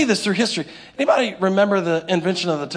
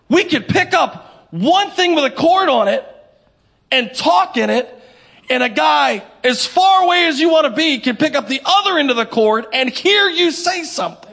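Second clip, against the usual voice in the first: mock boast; 5 semitones higher, 4 dB louder than usual. Mock boasting about telephone.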